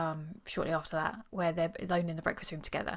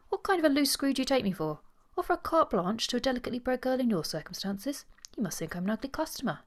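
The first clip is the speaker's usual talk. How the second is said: acted outrage, pitched up; outraged; 6 semitones higher than usual. A narrator's reading. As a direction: demand it in offended disbelief. Outraged suitor after savage reply.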